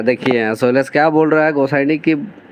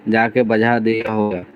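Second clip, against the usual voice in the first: shyly. Acted. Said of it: "लजात लजात के कह रहे".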